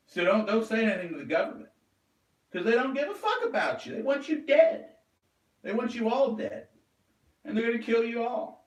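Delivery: a real warning that builds to yelling; rising shout. Real, not acted. Warning listeners about the government, building to a high, loud shout. Escalating rant against government.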